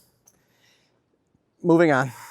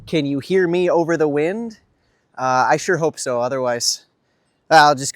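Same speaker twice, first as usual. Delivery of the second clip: mic buffeted by strong wind; talking outside in the wind; windy outdoor mic. Real, not acted. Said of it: "it's actually really windy right now".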